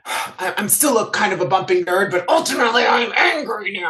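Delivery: building into a put-on angry outburst; mock angry nerd. Imitating the TV character's transition, mock angry. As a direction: start meek, end in mock anger. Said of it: "they did a little of the, like".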